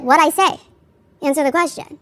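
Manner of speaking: a hint of a southern attorney pressing the witness; mild southern authority. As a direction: imitate a lawyer's southern command, not hostile. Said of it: "kind of in, like, a southern accent".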